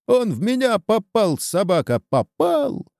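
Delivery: very high, agitated cry; wounded outcry. A narrator's reading. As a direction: wail that you are hit, cursing. Wounded man cries out. (истошный возглас раненого)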